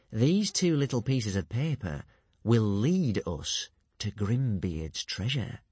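slow, sly and crafty. Acted. Alvin coaxing Stoic, slow and crafty. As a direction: draw him in slyly. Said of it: "said Alvin craftily".

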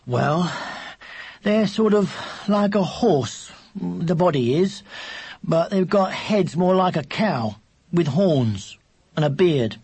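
lightly voiced boy, slowly describing; explaining older brother. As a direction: think it out piece by piece.

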